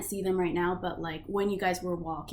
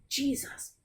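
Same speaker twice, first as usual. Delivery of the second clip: higher, startled guard voice; shocked guard; 8 semitones higher than usual. Acted. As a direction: recoil from the stink as the guard. Guard reacts to the stench.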